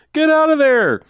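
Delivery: high, loud shouted warning; imitated yell. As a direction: holler it like a man calling from a window. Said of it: "'cause he yells".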